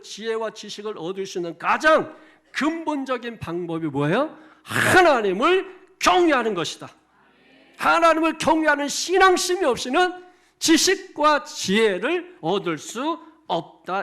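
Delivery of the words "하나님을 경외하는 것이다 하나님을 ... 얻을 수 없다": loud, high, slow proclamation; preaching at full force. Real, not acted. 설교자가 신도들에게 외치듯 크고 높게, 천천히. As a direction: hammer each word out to the congregation.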